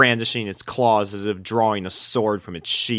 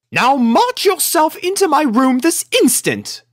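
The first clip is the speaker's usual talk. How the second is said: high, loud order; loud lady commanding; stern command; 6 dB louder than usual. A narrator's reading. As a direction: send the cat away sharply. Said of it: "furious conversation".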